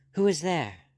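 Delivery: high, loud and a touch shaky; a little tremulous. Acted. Miss Bishop calling from the dark window, tremulous. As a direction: call down nervously from the window. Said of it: "a little tremulous".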